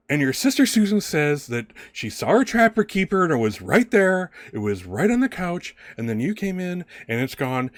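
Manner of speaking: high, pressing, accusing tirade; heated stepmother. Acted. Stepmother grilling Alice over the missing trapper keeper, heated. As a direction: lay into the stepdaughter, pitched well up. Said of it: "middle of a heated conversation".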